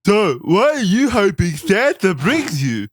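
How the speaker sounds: high, slow, dopey nerd voice; a goofy high nerd reading creepy lines; fat nerd voice. Acted. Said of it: "your fat nerd voice with the lazy eye".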